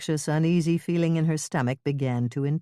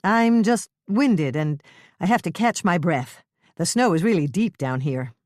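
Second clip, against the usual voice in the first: louder, steady voice calling up; calling up steadily; 3 semitones higher, 5 dB louder than usual. Acted. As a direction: call up from the ditch, steady. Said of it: "how strong and steady her voice was".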